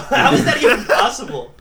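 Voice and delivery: high, astonished, laughing; amazed. Retold or imitated. Slaves amazed at the jazz mouth player, laughing astonishment. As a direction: gasp it out in amazed disbelief. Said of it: "They're like".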